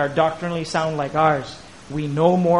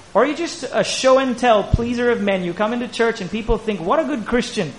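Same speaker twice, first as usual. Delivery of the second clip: higher, pressing sermon voice; challenging preaching; 5 semitones higher than usual. Real, not acted. Preacher questioning whether churchgoers are pleasers of men, challenging. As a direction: challenge the congregation with raised pitch.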